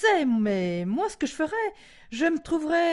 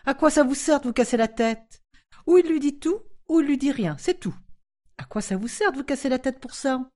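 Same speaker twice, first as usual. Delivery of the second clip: authoritative tone. Acted. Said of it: "Elle prit un ton autoritaire".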